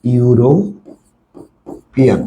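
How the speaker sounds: ইউরোপিয়ান drawn out very slowly, each sound stretched; slow model pronunciation. Shown as a demonstration. Teacher modelling ইউরোপিয়ান for a student, very slowly. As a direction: stretch out ইউরোপিয়ান syllable by syllable for the learner. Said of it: "ইউরোপিয়ান উচ্চারণ করো তো".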